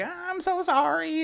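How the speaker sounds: put-on nasally, very high-pitched Atlantic Canadian accent. Retell how PWR reached out to you before the show, in his nasally Atlantic Canadian accent. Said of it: "he has this really like nasally Atlantic Canadian accent".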